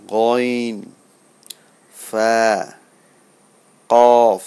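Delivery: measured "সিন, শিন, সদ", each letter held; Arabic letter pronunciation. Shown as a demonstration. Teacher repeating the alphabet for learners, deliberate recitation from "খ" to "কফ". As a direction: sound out "সদ" and "কফ" full and loud. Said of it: "আমি আবার বলি".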